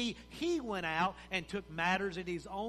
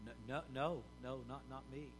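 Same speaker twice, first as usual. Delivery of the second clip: stammering, softer frightened no's; nervous denial; 6 semitones lower, 8 dB quieter, faster than usual. Acted. Peter denying Jesus by the fire, stammering and frightened. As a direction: back away, scared of being caught.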